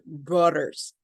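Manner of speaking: "brothers" with a hard D instead of TH; wrong TH. Shown as a demonstration. Teacher demonstrating the common mistake, "brothers" with D. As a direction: say "brothers" as "broders". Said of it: "it's not a D sound".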